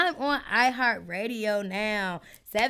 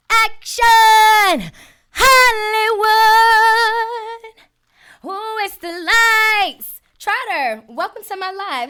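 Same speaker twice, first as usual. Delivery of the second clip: mock Hollywood diva; 10 semitones higher, 10 dB louder, slower than usual. Playing a Hollywood star.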